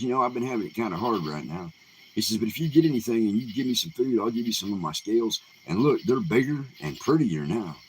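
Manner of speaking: a hint of a boastful snake. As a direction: sell it to him, proud of the bigger scales. Bigger snake bargains again.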